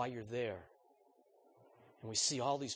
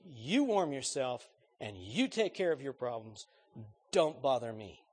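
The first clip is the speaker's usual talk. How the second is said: cold indifferent brush-off; sarcastic; 5 dB louder than usual. Shown as a demonstration. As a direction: say it coldly, you don't care. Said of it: "The middle voice is very sarcastic".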